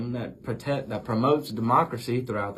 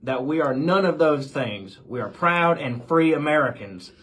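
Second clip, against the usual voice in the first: louder, heated patriotic protest; indignant retort; 5 semitones higher, 6 dB louder than usual. Acted. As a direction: push back hard, offended. Washington retorts to the insults.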